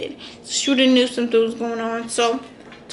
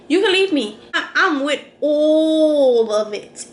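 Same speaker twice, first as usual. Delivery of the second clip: laughing; slower than usual. Real, not acted. Laughing while retelling.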